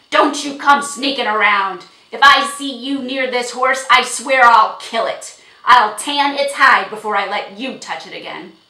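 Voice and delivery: very loud, menacing warning; angry threat. A narrator's reading. Horse owner warning the girl off, angry shouting. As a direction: threaten her at full force.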